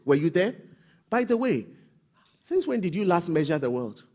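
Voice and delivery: challenging God voice. Acted.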